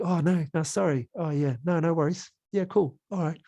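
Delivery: light New Zealand lilt, chatty and nice; New Zealand accent. Shown as a demonstration. Teacher demos a nice New Zealand accent. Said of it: "the real nice kind of New Zealand".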